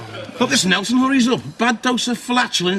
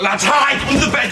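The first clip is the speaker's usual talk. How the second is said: hurried, raised call to hide; urgent shout; 3 semitones higher than usual. Acted. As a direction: hurry them under the bed. Pirates hiding in a panic.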